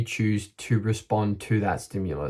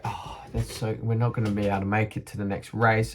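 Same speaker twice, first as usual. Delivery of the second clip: soft, deflated, rushed lament; imitating the team's letdown; mock disappointment; 4 dB quieter, faster than usual. After the small sponsor offer, the team softly deflated. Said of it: "we were all disappointed, like".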